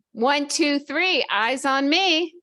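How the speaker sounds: high, loud, slow call for attention; sing-song teacher calling the class; kindergarten teacher voice. Shown as a demonstration.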